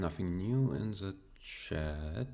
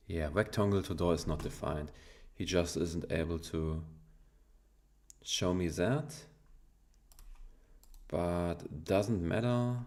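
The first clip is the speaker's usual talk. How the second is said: German accent. Real, not acted. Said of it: "I'm so active on my German accent now".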